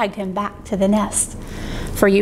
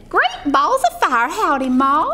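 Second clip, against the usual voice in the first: put-on baby goose; 2 semitones higher than usual. Hatchling goose greets Jack.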